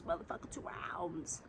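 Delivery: whispered, under the breath; whispered jab. Retold or imitated. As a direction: spit it out in a whisper. Hissed aside in the quarrel.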